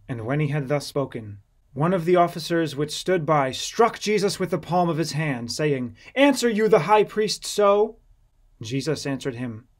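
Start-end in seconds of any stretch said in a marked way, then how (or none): 6.1-8.0 sharp, louder officer's challenge; higher, louder rebuke; indignant rebuke. Acted. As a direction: scold the prisoner for his insolence. Officer strikes and rebukes Jesus.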